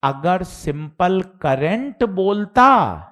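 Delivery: slowly, word by word. Shown as a demonstration. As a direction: spell it out slowly so it sinks in. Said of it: "धीरे धीरे बोलता हूं". (धीरे धीरे, शब्द दर शब्द)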